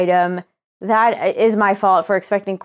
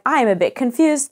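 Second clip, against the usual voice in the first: mild mock-innocent confusion; passive aggressive; 3 semitones higher than usual. Customer imitating her own email to support, passive aggressive. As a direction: feign polite puzzlement to make a point. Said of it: "like, passive aggressive".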